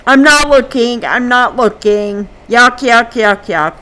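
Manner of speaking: mock grossed-out protest, quick repeats; squeamish protest. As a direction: act out squirming away from a gory scene. Squeamish reaction to gory movie scene.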